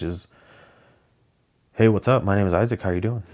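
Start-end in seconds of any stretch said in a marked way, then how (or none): 1.7-3.2 lightly done Southern California guy; casual Southern California accent. Shown as a demonstration. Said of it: "a guy from California".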